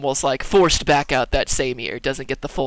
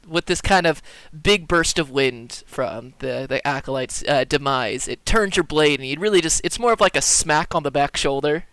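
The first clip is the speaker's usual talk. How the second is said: normal talking voice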